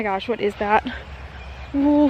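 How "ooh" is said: sudden high startled ooh. Real, not acted. Walking the baby, startled by a bug overhead, high ooh. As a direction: jumps as something flies past. Something lands in her hair.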